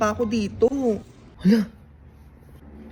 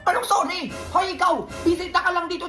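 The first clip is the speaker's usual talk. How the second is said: annoyed tita; 5 semitones higher than usual. Acted. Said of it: "sorry po, tita".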